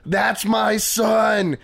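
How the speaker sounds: slow, drawn-out proud shout; dad in the audience cheering his son, a slow shout. Retold or imitated. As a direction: bellow it like a dad cheering from the crowd. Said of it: "shaking his fist in the air saying".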